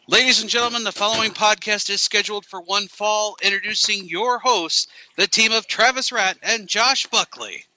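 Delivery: arena announcer. Shown as a demonstration. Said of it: "that sweet ring announcer voice".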